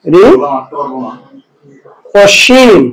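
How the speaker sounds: রি, অসীম sounded out slowly in parts; pronunciation demo. Shown as a demonstration. Teacher sounding out the word for the class, slow and split. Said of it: "এটার উচ্চারণ হবে".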